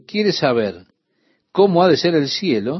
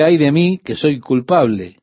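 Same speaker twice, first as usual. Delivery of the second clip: louder, pleading lament; Isaiah's anguished cry; 3 dB louder than usual. Retold or imitated. Preacher voicing Isaiah's cry before God, louder lament. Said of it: "Su clamor fue".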